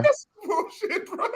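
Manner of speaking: very high, slow, laughing outrage; outraged disbelief. Real, not acted. Reacting to a buddy's scam story, high slow amused outrage.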